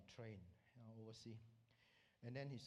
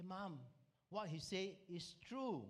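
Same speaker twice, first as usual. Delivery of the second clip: lightly voiced child, higher pitch; little girl speaking up; 5 semitones higher, 3 dB louder, slower than usual. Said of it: "the little girl spoke up".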